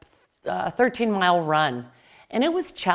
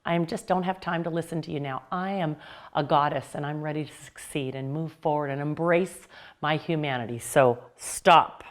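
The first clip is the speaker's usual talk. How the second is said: firm dismissal; 4 semitones lower than usual. Shown as a demonstration. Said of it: "you can even just say".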